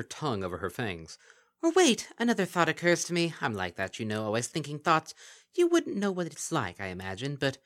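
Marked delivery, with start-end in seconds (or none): 1.6-7.6 high, louder mocking creature voice; sly kelpie voice. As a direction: purr it with false sweetness. Kelpie character voice.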